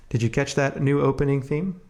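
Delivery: ordinary talk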